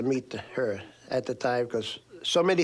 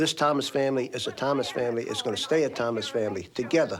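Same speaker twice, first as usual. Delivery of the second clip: usual speaking voice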